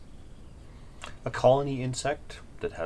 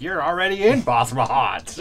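high, louder mocking chorus; mock kobolds; 6 semitones higher, 9 dB louder than usual. Kobolds mocking the lost travellers, in a high louder voice. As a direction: sneer it like smug locals. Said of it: "They're all like".

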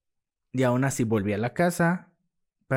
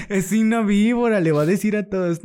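much higher, louder, half-laughing warning; laughing mock alarm; 10 semitones higher, 9 dB louder than usual. Retelling his fear she'll tell everyone, laughing mock alarm. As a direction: squeal the warning through laughter.

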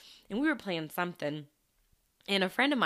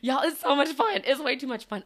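louder, higher playful Southern Belle; Southern Belle accent; 7 semitones higher, 6 dB louder than usual. Shown as a demonstration. Speaker practicing for fun, lively Southern Belle accent. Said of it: "a Southern Belle type of accent".

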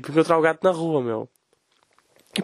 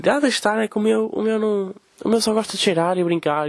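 put-on higher, chatty old lady voice; imitating older lady; 6 semitones higher than usual. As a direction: parody a gossiping neighbour. Voices older woman with dog.

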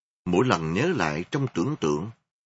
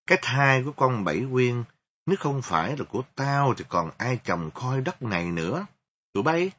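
smug boasting; 5 semitones higher than usual. Acted. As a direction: crow about it like a drunk soldier. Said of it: "Nó vên mặt tử đắc với bạn bè".

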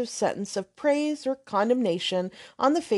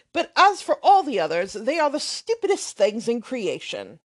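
put-on brash, offhand young man swearing lightly; lightly voiced loud young rake; blustering braggart; 3 dB louder than usual.

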